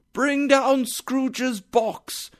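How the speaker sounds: high, slow, drawn-out shout; hard shouted order. A narrator's reading. Schoolmaster orders the boy's box down, shouting. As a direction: call it out harshly down a hall. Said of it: "a hard, loud voice shouted".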